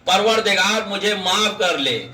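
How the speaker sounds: low, subdued plea for forgiveness; humble low-pitched supplication, acted; acted repentant prayer. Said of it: "دعا کرنے لگا".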